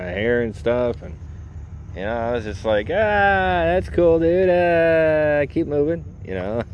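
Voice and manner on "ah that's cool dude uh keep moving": squeaky high brush-off; hammed-up high nervous reply; high mock voice. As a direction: pitch way up, nervous and dismissive. Brushing off a flirting drag queen.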